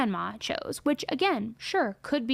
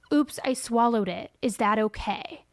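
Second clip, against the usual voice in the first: put-on frightened, frantic, worried little voice. Retelling a child's words from a short video: imitating a scared, frantic voice. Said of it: "in a very scared, frantic way".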